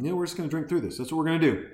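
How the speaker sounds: slurping while talking; talking between slurps of beer. Real, not acted. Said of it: "that disgusting slurping sound".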